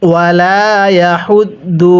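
ইয়াহুদ্দু with air pushed out on the ha; breathy ha. Shown as a demonstration. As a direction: push breath through হা in ইয়াহুদ্দু. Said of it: "পড়ুন আমার সাথে". (ইয়াহুদ্দু হা-তে বাতাস ছেড়ে)

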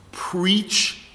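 slow, drawn-out church encouragement; congregation call-and-response. Retold or imitated. Baptist congregant cheers on the preacher, slow drawn-out call. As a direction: imitate a churchgoer stretching out each word.

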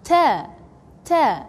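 Ta, tongue behind the teeth, soft. Shown as a demonstration. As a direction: model Ta. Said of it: "you pronounce it soft".

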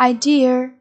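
"Idea" stressed on its second syllable. Shown as a demonstration. Teacher modelling a word for pupils, second syllable of "Idea" stressed. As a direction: lean on the DE in "Idea". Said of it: "nhấn âm tiết số hai".

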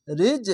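রিজ with a jolt on the closing consonant; qalqalah bounce. Shown as a demonstration. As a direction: release the j of রিজ with a sharp echoing bounce. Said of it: "সাউন্ডটা ঝোঁক মেরে আসবে".

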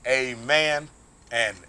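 slow, solemn blessing with a long drawn-out amen; benediction. Acted. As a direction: bless the congregation, stretching the last amen.

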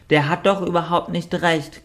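hohe, quakende Entenstimme in Rage; wütend quakend. A narrator's reading. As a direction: sich in Wut reden. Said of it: "quakte Richard sich in Rage". (wütendes Quaken)

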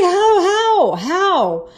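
high wail sliding down, imitated; mock-sobbing repeated question; crying. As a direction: act out a tearful, disbelieving plea. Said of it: "I started crying so bad".

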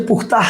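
পুখতাহ with kh and open -tah; পুখতাহ, fricative kh before the t; Persian source word. Shown as a demonstration. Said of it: "শব্দটা ফার্সি শব্দ".

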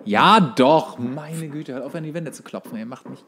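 ordinary talk, nothing marked

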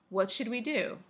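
mildly acted worried question; lightly voiced spoken dialogue; character's line. Shown as a demonstration. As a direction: ask it as a character would. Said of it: "No one says that".

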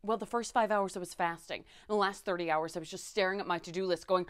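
normal talking voice

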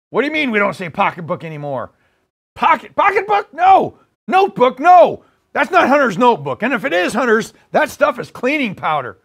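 flustered, mock-outraged presidential impression; Joe Biden. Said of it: "playing the part of Joe Biden".

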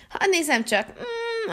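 a little crying whimper, soft; soft fake whimper at the hotel; mock whimper. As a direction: whine as if about to cry, quietly. Whimpering while looking at hotel.

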